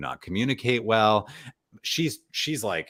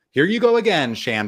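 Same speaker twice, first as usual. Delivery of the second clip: much higher and louder, fed up; mock exasperated outburst; 9 semitones higher, 7 dB louder than usual. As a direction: blurt it out, fed up. Deshaun snapping at Shan.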